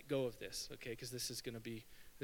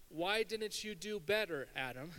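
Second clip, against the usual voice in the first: higher, slowed mock reproach; mock yell; 5 semitones higher than usual. Preacher voices the scolding God didn't give Adam, mock yell. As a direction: imitate a yell at Adam, held back. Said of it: "he doesn't yell".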